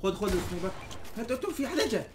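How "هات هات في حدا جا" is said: high, hurried alarm; urgent callout. Real, not acted. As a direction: warn the team in a rush. Enemy coming, urgent callout. (نداء عاجل)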